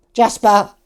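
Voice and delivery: loud, high name call; calling a cat. Pretend.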